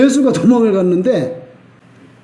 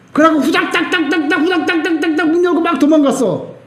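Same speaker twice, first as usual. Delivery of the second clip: scurrying mimicry; 7 semitones higher than usual. Mimics frantic running away.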